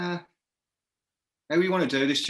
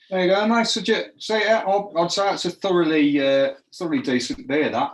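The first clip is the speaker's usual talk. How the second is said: excited; 7 semitones higher, 7 dB louder than usual. Real, not acted. Toasting beer with mate.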